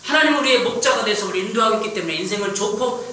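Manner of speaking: high, loud pulpit declaration; emphatic sermon climax; forceful preaching. Acted. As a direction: proclaim it to the congregation with full force. Preaches the closing affirmation.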